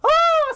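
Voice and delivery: piercingly high, loud scream; cartoon scream. SpongeBob reacts to the story's climax, cartoon scream. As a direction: scream in hammed-up terror. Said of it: "It's still going on".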